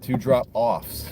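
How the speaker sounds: drawn-out "drop-offs" with weight on "offs"; stress on OFFS. Shown as a demonstration. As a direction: lean slowly on the "offs" in "drop-offs". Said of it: "emphasizing the off".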